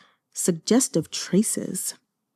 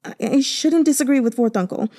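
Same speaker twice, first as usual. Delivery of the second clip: muttering tearfully; 5 semitones higher, faster than usual. Acted. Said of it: "He muttered again and again".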